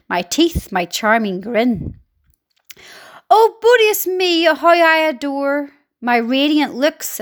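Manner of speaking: a hint of a smug aunt showing off; Aunt Spiker preening. Aunt boasting to her sister, mildly mocking. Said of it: "Aunt Spiker said".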